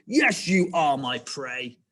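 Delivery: slow wolf bark; drawn-out, mildly barked threat. Acted. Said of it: "he barked this".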